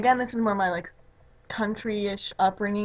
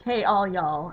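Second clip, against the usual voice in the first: a slightly louder, hammed-up Southern "Hey, all y'all"; over-the-top Southern accent; 4 dB louder, much slower than usual. Shown as a demonstration. Greeting friends in an over-the-top Southern accent. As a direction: lay the Southern drawl on thick with "all y'all". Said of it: "just going over the top".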